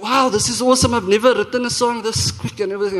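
amazed delight. Retold or imitated. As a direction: marvel at your own quick work. Retelling delight at a new song.

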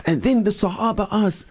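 earnest, moved retelling; with feeling. Shown as a demonstration. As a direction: say it with love and passion. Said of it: "we say with, with feeling".

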